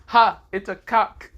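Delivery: loud, high, slow jeering cackle of a word; mocking laugh. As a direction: crow it out like a gleeful kid. Ezra mocks the chicken.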